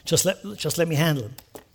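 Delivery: quiet, low "I know, I know"; God comforting Nehemiah softly; soft reassuring God. Retold or imitated. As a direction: soothe him like a calm father. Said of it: "God says".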